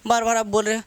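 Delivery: mock teacher losing patience; mildly annoyed teacher. Teacher scolding the student for asking repeatedly, mildly annoyed. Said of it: "teacher हल्का सा गर्मा गया".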